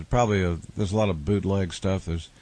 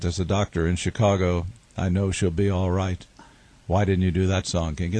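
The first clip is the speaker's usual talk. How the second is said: put-on thick German accent, lightly done; a German fan's accent. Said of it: "in the thick German accent".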